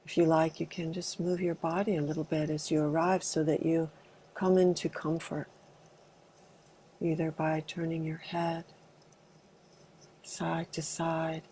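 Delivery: calm, unhurried meditation guidance with long pauses; spacious meditation leader's delivery; guided meditation. Acted. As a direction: gently guide a group into arriving, leaving space between phrases. Leads an arriving meditation.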